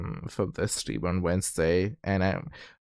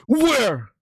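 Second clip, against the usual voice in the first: playful surprise; 13 semitones higher, 5 dB louder than usual. Acted. Mock surprise looking around.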